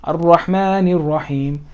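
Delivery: Ar-Rahmanir Rahim slowly run together; linked words. Shown as a demonstration. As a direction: link Rahmanir into Rahim without a break. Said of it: "In the middle of a sentence".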